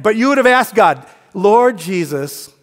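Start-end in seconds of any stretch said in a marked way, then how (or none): 1.3-2.5 sarcastic prayer. Retold or imitated. Pastor suggesting a husband's prayer, sarcastic. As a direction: overplay a pious plea, then ease off. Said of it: "I was being sarcastic".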